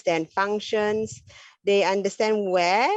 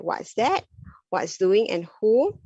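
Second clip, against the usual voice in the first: put-on toddler questions; 3 semitones higher than usual. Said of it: "asking questions like".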